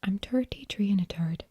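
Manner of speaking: practice phrase in an Irish accent; attempted Irish accent. Shown as a demonstration. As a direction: warm up an Irish brogue. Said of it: "use a phrase to get myself started".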